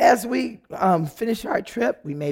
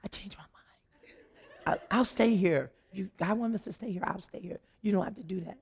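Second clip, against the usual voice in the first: much softer, hurried backpedaling; 8 dB quieter than usual. Retold or imitated. Wife backing down to her husband, much softer. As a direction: take it all back quickly and softly. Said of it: "I was like".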